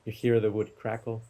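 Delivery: unhurried meditation guide, long pauses; guided meditation. Real, not acted. Teacher guiding listeners from table to campfire, guided meditation. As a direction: give each image room to settle. Leads a guided imagery exercise.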